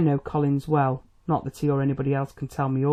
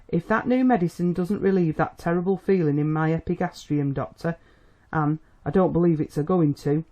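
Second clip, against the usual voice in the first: acid remark. Acted. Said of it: "she remarked acidly".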